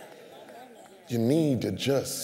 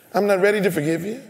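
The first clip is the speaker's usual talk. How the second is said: indignant refusal; 6 semitones higher, 6 dB louder, much faster than usual. Retold or imitated. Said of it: "refusing the caller".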